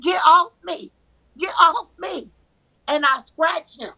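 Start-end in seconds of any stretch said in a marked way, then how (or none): 0.0-2.3 higher-pitched mild mock yell; half-screamed, repeated plea in a retelling; retold scream. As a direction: act out crying for release. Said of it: "I'm screaming".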